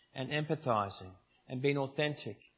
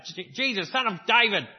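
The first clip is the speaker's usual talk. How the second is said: calling out; 7 semitones higher, 8 dB louder than usual. Retold or imitated. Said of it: "That's how he sounded".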